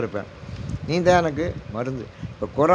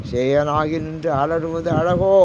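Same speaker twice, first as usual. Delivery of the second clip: drawn-out devotional intoning; slow verse recitation; 4 dB louder, slower than usual. Acted. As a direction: stretch each word of the hymn slowly. (மெதுவாக பாடல் ஓதுதல்)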